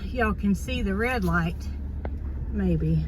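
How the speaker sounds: a little winded after unloading; slightly breathless talk; out of breath. Real, not acted. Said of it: "Yes, I'm a little bit out of breath".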